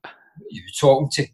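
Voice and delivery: baffled, laughing half-shout; laughing retort. Retold or imitated. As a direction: throw it back, laughing in confusion. Retold baffled reply, laughing.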